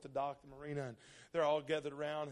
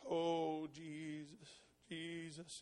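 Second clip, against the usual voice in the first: mild muttered prayer; 6 dB quieter, much slower than usual. Retold or imitated. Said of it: "he's kind of a loud guy".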